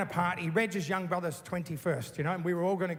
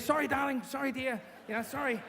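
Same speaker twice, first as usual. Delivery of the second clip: higher, pleading sorry; placating apology; 7 semitones higher than usual. Retold or imitated. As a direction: grovel to calm her down. Reg placating furious mum.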